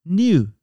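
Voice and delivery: single word knew, emphatic; stressed word knew. Shown as a demonstration. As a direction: punch out knew on its own. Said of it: "emphasis is in the verb".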